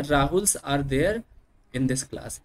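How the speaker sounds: Rahuls are there, said very slowly; slow repetition. Shown as a demonstration. Teacher repeating the plural example, very slow. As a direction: stretch out Rahuls again for the class. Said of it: "है ना".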